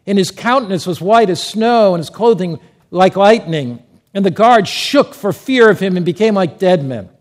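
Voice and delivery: loud, declamatory Bible reading; scripture reading. Acted. Preacher reading the resurrection account to the congregation, loudly proclaimed. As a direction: proclaim the verse to a full room.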